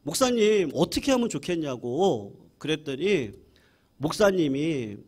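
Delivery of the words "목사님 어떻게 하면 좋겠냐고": mild mock anger. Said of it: "화가 나가지고 온 거예요".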